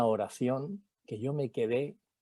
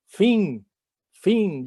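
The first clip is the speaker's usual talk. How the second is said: exclaiming; 8 semitones higher, 9 dB louder than usual. Retold or imitated. Ashamed, calling an end.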